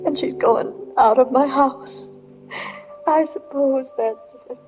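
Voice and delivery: tearful. Acted. Mother of the bride alone with her thoughts, tearful. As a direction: hold back tears, pausing between phrases. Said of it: "I should be crying".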